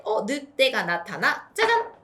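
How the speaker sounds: spring the wolf on the tower; playful wolf reveal. Shown as a demonstration. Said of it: "늑대가 나타났대". (아이에게 늑대 등장을 신나게 외치며)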